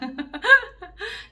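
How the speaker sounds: loud, high cackle; burst of laughter. Real, not acted. Storyteller cracks up at the punchline, laughing hard.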